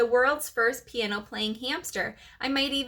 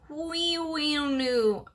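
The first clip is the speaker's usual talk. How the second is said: sick cow whinny; 6 semitones higher, much slower than usual. A narrator's reading. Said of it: "Thomas sounded more like a sick cow".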